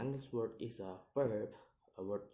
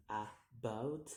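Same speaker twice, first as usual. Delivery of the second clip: "about" split in two, rising on the second syllable; second-syllable stress. Shown as a demonstration. Teacher showing stress, "about" in two rising beats. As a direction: break "about" apart and lift the end. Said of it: "have a second syllable".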